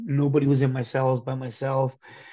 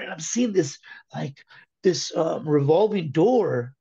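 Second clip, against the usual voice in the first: higher, urgent pleading to God, relived; earnest pleading prayer; 3 semitones higher than usual. Retold or imitated. Recalling his cell prayer to God, an earnest raised plea. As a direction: beg the Lord to use you, voice lifted.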